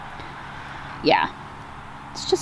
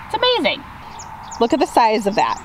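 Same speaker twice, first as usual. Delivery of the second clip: excited; 2 semitones higher than usual. Real, not acted. Showing off big plants.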